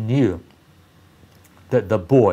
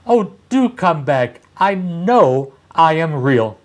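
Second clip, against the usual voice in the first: lightly voiced little rabbit, higher and pleading; 4 semitones higher, 3 dB louder than usual. Little rabbit begging the strangers to return, gently high plea. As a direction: beg them to come back in a small raised voice. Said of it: "called the little rabbit".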